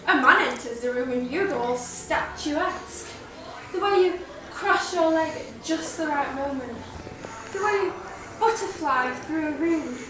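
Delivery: Patricia. Acted. Student performing Patricia's monologue for a drama teacher, in character. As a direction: needle her with measured, emphatic stage delivery. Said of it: "I'll be performing in the character of Patricia".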